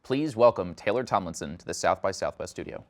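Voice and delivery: polished anchor-style intro read; news reporter voice. Acted. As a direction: read it like a TV host introducing a guest. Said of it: "I have to put on my news reporter voice".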